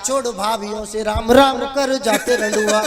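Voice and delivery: rhythmic recited comic refrain; verse refrain. Acted. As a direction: deliver it as a lilting stage couplet. (लयदार हास्य कविता पाठ)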